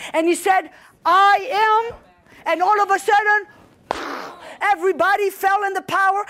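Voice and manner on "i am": solemn proclamation. Acted. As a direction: proclaim it with authority. Jesus declares himself, acted.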